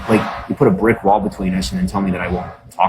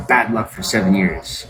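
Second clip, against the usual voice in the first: slow ominous reading. Retold or imitated. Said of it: "and it says".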